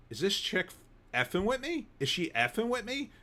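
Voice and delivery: high, disbelieving mutter to himself; incredulous inner voice. Retold or imitated. Customer asking himself about the clerk, disbelieving and high. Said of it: "getting into Jersey mode".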